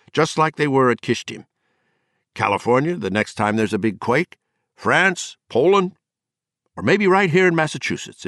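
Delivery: a lightly voiced drunk man lecturing the room on doom; drunken warning. Drunk Gardner warning the party guests, rising and heated.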